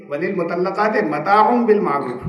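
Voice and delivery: slow, measured Arabic recitation; Quranic recitation. Shown as a demonstration. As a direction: intone the verse slowly like scripture. Repeating the Quran verse.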